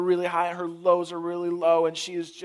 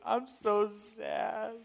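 put-on sad child; 5 semitones higher, 6 dB quieter, much slower than usual. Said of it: "and she says".

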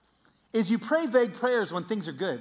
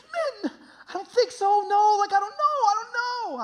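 high, panicky mock whine; freaking out; 13 semitones higher, 4 dB louder than usual. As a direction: imitate a friend squealing in a panic. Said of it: "he was freaking out".

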